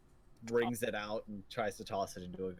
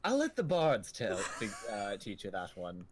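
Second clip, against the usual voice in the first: put-on old innkeeper. Innkeeper winks.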